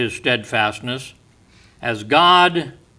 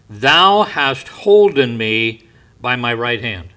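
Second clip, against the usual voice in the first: solemn scripture; 6 dB louder than usual. Acted. Preacher reading scripture with weight.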